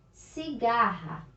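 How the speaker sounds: "Cigarra" drawn out with an h-like RR; teacher's slow model of "Cigarra" with the strong R; strong double R. Shown as a demonstration. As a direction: sound out "Cigarra" slowly, breathing the RR. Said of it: "Pronúncia forte".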